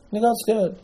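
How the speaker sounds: high but soft echo; hushed repeat. Real, not acted. Preacher repeats the spies' failing to his listeners, hushed repeat. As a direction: drop the volume, keep the pitch high. Repeats the point, dropping volume.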